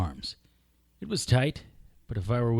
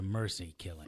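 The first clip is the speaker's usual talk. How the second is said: mocking laugh; 5 semitones lower, 8 dB quieter than usual. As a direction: laugh his excuse back at him. Villain mocking.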